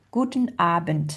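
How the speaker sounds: "Guten Abend" ending in a T; audible final T. Shown as a demonstration. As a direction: let the T be heard at the end of "Abend". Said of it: "on entend le T".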